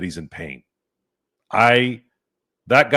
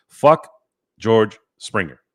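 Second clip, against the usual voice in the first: angry curse; 6 dB louder, slower than usual. Real, not acted. Cursing a rival player.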